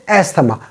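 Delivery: "asthma" with the th sounded; "asthma" in three syllables with a t sound; mispronounced asthma. Shown as a demonstration. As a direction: say "asthma" as es-tha-ma. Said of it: "it is not asthma".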